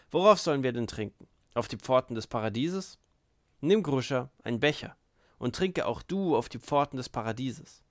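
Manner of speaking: loud, goading toast; boisterous call to raise glasses; rousing drinker. Acted. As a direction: urge them to drink up.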